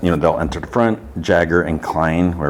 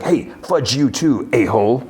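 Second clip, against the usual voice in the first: mock indignant retort; 6 semitones higher than usual. Economos answers the driver's teasing, mock indignant. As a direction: act out a lightly offended comeback. Economos snaps back in retold banter.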